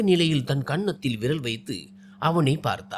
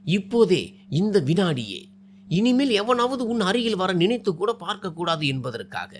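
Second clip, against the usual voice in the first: firm voice; 3 semitones higher than usual. Acted. Man insisting on marrying her this very second, firmly. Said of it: "Jayaram உறுதியான குரலில் கூறினான்".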